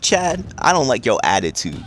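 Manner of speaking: a general manager bellowing the match to the crowd; booming announcement. Retold or imitated.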